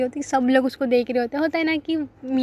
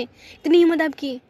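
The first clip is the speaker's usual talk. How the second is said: slowed, raised, louder jealous scolding; jealous girlfriend lays into him, angry; angry outburst; 4 semitones higher, 5 dB louder, slower than usual. Retold or imitated. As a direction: bite off each word in fury. Girlfriend's jealous fight, acted.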